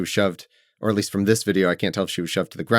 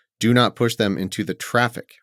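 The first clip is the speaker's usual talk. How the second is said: ordinary talk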